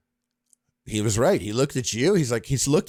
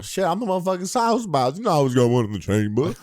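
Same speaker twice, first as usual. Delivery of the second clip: higher, hammed-up British accent; mock British accent; 4 semitones higher than usual. Co-host clowning about a chambered pistol, mock British accent. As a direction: put on a silly attempt at a British accent. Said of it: "Is that your British accent?".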